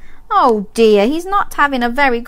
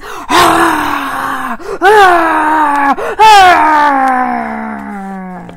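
fire breath; 5 semitones higher than usual. Shown as a demonstration. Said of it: "So flap those wings".

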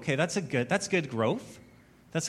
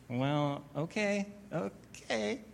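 resigned giving in; 3 semitones higher, 8 dB quieter, slower than usual. Retold or imitated. Pastor gives in to Lauren.

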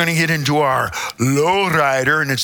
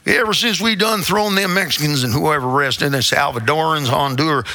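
put-on Southern accent. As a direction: quote it in a mock Southern accent. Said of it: "do you want me to do it with the accent?".

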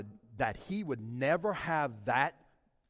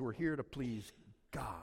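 breathy whisper, softer; 2 semitones lower, 5 dB quieter than usual. Acted. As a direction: drop to a hush to let it sink in. Whispered echo of preached line.

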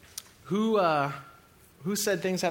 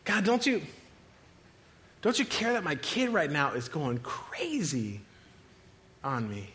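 acted screaming out. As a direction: cry out to God in acted panic. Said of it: "We start screaming out".

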